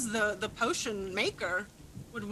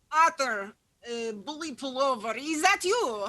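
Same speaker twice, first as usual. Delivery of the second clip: mother's voice; slower than usual. Acted. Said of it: "She goes".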